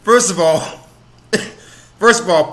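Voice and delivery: high-pitched disbelief through real laughter; cracking up. Real, not acted. Reacting to a speech clip, cracking up. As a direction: keep breaking into laughs between the words.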